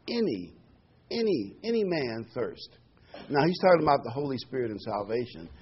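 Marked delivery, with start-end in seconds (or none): 0.1-2.8 "any" repeated as the key word; stress on ANY. Real, not acted. Preacher underlining one word for the congregation, emphatic "any". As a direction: land on each "any" separately. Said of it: "I want to emphasize that word".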